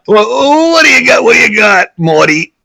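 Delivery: high, loud mock studio boss; old-time Hollywood studio executive. Host mimics studio executive asking Morty for pitches, brash and hammed-up. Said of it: "That's how Hollywood worked back then".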